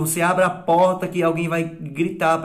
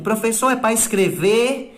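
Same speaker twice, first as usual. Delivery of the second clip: higher, asking pupil's voice; imitating a pupil; 7 semitones higher than usual. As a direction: play a child asking the teacher. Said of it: "quando eu tô na aula que vocês perguntam". (imitando aluno perguntando, mais agudo)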